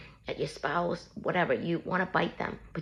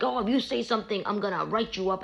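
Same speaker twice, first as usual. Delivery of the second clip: higher-pitched imitation of an officer's threat; mock police warning; 4 semitones higher than usual. Police officer warning someone just arrested, mildly acted threat.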